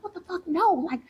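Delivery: high-pitched, incredulous mock panic; retold breakdown. Retelling her refusal to go out with teeth falling, mock breakdown. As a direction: replay the meltdown with pitch way up. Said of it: "So I'm having this whole breakdown".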